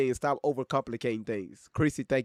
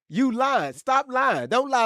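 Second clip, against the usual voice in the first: higher and louder, calling the liar out; loud callout; 9 semitones higher, 5 dB louder, slower than usual. Real, not acted. Streamer calling out a lying chatter, loud and high. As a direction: call them out over the chat.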